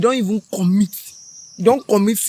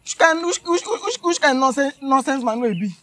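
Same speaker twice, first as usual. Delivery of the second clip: higher, exasperated sputtering; outraged; 3 semitones higher than usual. Acted. Woman denouncing the fake man of God, exasperated. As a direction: sputter in disbelief at his nonsense.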